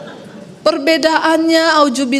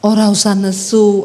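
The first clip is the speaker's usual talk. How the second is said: husband's Javanese; 4 semitones lower than usual. Retold or imitated. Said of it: "Dia bilang".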